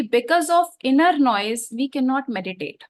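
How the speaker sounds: very slow, weighty quote of the teacher; quoting the teacher from the Soul Book, slow and measured; slow quoted teaching. Retold or imitated. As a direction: read the teacher's words out slowly and deliberately. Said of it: "teacher कहते हैं".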